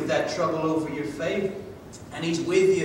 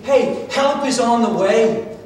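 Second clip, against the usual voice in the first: rousing proclamation; 4 semitones higher, 6 dB louder, slower than usual. Acted. Preacher voicing God's encouraging message.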